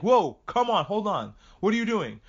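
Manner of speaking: alarmed protest. Retold or imitated. Acted protest at spoiler movie.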